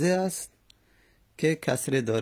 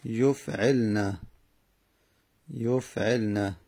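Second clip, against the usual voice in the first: slow drawn-out pattern; 2 semitones lower, slower than usual. Shown as a demonstration. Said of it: "یعنی یف".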